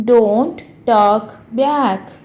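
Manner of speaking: DON'T, TALK, BACK, each slow and separate; slow model repeat. Shown as a demonstration. Teacher repeats a phrase for learners, slow word by word.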